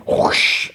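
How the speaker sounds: breathy whoosh of flames; imitated whoosh. Retelling how his hand bursts into flame, imitated whoosh. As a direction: make the sound of fire igniting.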